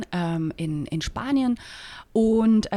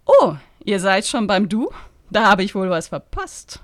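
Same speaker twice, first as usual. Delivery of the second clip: muttered through teeth; 4 dB louder than usual. Acted. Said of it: "murmelte Bettina ebenfalls mit zusammengepressten Zähnen".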